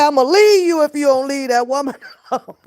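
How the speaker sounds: quick, high, laughing threat; laughing mock threat. Partner threatening to leave, laughing. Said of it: "This nigga say".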